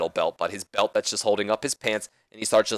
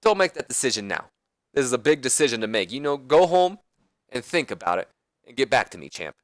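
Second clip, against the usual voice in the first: put-on a touch of the Nature Boy, easing off, fading on champ; Ric Flair voice; 3 semitones higher than usual. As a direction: back off and leave him a generous offer. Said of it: "And then Flair says".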